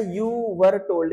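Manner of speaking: very slow, word by word; slow reading. Shown as a demonstration. Teacher dictates the passage slowly word by word. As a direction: read the English line slowly to the class. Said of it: "ये passive में लिखा है sentence".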